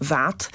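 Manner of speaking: "that" with a voiced th; English th sound. Shown as a demonstration. Expert ends the list of English th sounds. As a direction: buzz the th at the start of "that". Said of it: "dźwięków, zapisywanych po angielsku poprzez T H".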